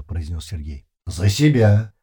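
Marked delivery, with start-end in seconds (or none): 1.1-1.9 louder flat machine question; metallic voice. A narrator's reading. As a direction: ask it with no emotion. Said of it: "продолжал говорить короткими фразами".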